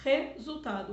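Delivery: Resultado with a throaty H-like initial R; strong R at the start. Shown as a demonstration. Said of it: "ele já é forte".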